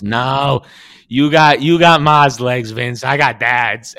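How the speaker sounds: Johnny correcting his brother about whose legs he got; Johnny retort. Retold or imitated. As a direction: fire it back, offended. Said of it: "He goes".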